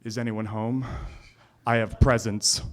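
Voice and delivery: lightly voiced low Scottish stranger; a hint of a deep Scottish man calling out. A Scottish stranger calling into the tent at night, deep Scottish voice. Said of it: "this deep Scottish voice says".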